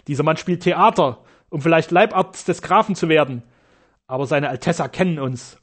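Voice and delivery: loud, mocking sneer; scornful. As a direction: ridicule the stranger. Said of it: "schnarrte er voller Hohn".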